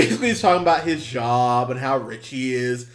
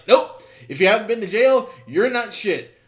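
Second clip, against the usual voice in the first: mock character voice; 6 semitones higher than usual. Voicing the movie character.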